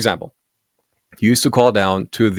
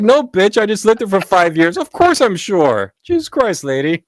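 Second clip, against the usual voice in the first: mock exasperation; 11 semitones higher than usual.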